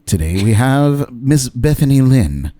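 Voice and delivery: hint of a measured, soothing interview-show host; lightly voiced formal TV interviewer, unhurried pauses; James Lipton impersonation. Host introduces his country singer guest, lightly impersonated soothing interviewer. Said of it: "It's my best James Lipton impersonation".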